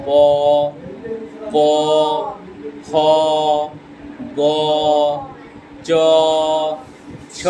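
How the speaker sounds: each consonant spoken with its inherent অ, long pauses; teacher drilling consonants with অ; letter sounds. Shown as a demonstration. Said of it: "উচ্চারণ হচ্ছে অ".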